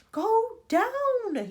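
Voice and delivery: high, loud desperate order; yelled. A narrator's reading. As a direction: yell it over the noise. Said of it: "yelled Grandpa George".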